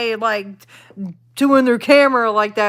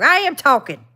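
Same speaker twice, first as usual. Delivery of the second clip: higher, punchy comeback on AM; indignant retort; 4 semitones higher, 4 dB louder than usual. Real, not acted. Streamer answers "why don't you talk", indignant. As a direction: snap back at the complaint.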